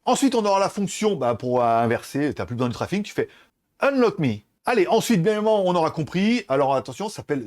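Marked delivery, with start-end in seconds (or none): 3.8-4.4 French-accented English command. Shown as a demonstration. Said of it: "elle comprend mon anglais de merde".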